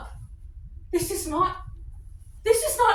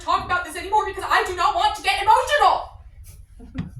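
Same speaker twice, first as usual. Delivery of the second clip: firm raised voice; 6 dB louder than usual. Acted. Wife shuts down the talk.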